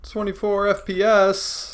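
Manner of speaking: high, slow, showy announcer voice; drawn-out hammy announcer; mock movie trailer voice. Mock cinematic voice reaction.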